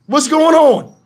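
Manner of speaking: who is carrying me along here; baffled outburst. Retold or imitated. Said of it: "I'm like".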